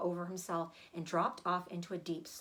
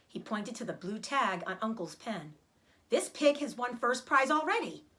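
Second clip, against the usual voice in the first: excited; 2 semitones higher than usual. Acted. Avery excited about the tag.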